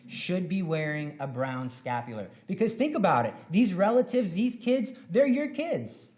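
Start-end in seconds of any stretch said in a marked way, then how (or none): 2.5-6.1 higher, louder, emphatic build; fervent preaching; impassioned appeal. Real, not acted. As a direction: press each word home. Passionate exhortation.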